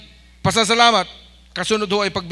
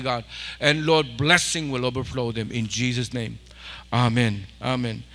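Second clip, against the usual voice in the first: steady, low-pitched praying voice; earnest prayer; 5 semitones lower than usual. Real, not acted. Pastor praying over people with raised hands for their requests, earnest prayer. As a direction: pray over them with steady insistence.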